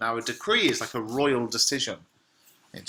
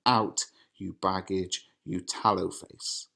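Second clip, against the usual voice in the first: father berating his daughter, mild mock fury; Capulet's rage. Reads Capulet's lines.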